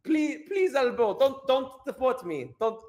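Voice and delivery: high-pitched mock begging; pleading deportee. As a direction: beg in a high, panicky mock voice. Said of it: "He's going like".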